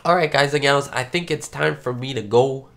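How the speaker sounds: nasal voice from a cold; nasal sick voice. Real, not acted. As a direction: talk through a stuffed nose. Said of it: "you can hear my nasally voice".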